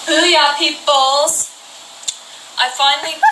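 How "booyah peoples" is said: slow, loud dude greeting; drawn-out booyah. Acted. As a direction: stretch out the booyah like a cool kid. Cool teen boy greeting.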